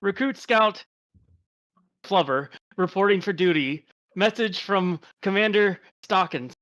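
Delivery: lightly posh English officer voice; a hint of an upper-class British accent. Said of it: "I say in a very posh voice".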